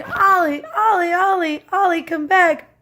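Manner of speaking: retold yell after a dog chasing a truck; calling the dog. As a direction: call a runaway dog back down the street. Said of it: "And so I'm yelling".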